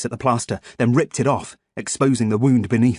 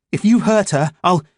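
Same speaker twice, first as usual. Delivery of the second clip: higher, louder threat that breaks off; angry threat; 7 semitones higher, 5 dB louder than usual. A narrator's reading. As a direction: warn him hotly, then get cut off. Threat cut off mid-line.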